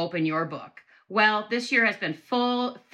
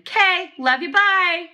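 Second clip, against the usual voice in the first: put-on higher, louder bubbly teen girl; girly teen sign-off; 10 semitones higher, 6 dB louder, slower than usual. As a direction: chirp it like a teenage girl. Reading friend's note sign-off.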